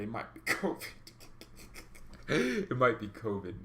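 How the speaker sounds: trying not to laugh for fear of coughing; real stifled laugh breaking into the words; holding back laughter. Real, not acted. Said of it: "when you're trying to laugh".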